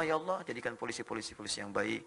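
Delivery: low, soft murmured prayer, lifting at the end; softly recited supplication. Retold or imitated. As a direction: quietly plead with God for the nation. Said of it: "Dan saya berdoa".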